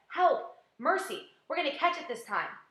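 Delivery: high panicked calls for help; frightened cry. Acted. Creatures under the storm cloud crying out in fear.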